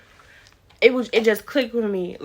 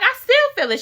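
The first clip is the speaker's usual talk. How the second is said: laughing protest; 6 dB louder, much faster than usual. Retold or imitated. Retold still feeling the stitches.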